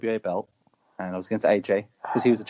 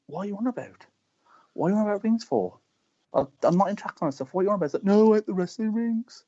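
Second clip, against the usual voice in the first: exaggerated Black Country accent, pitched higher; 8 semitones higher than usual. Denying he broke the ring, hammed-up Black Country accent. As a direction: ham up a bewildered Black Country protest. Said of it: "he doesn't have a Black Country accent like that".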